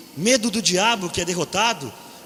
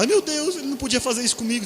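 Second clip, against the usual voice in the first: pessoa chocada; 3 semitones higher, faster than usual. Retold or imitated. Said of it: "uma pessoa cai aí e fala".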